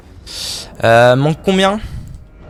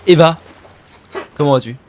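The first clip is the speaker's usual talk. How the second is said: put-on accent italien exagéré, qui monte fort sur "J'espère que tout y va"; faux accent italien. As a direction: jouer un Italien de pacotille. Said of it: "mon accent est tout à fait authentique". (faux accent italien)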